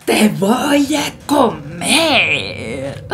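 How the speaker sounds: slow, drawn-out bear growl; menacing bear. Acted. Bear threatening the grandma, slow and menacing. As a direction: stretch the words out like a big bear.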